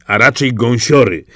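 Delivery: plain reading voice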